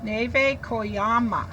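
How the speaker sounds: slow and careful name; teacher reading the author's name. Shown as a demonstration. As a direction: spell out the name gently. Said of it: "It's by Neve".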